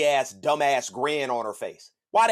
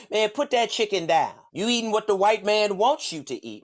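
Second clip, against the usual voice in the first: mock preachy lecture; 5 semitones higher than usual. Mocking new age preacher voice.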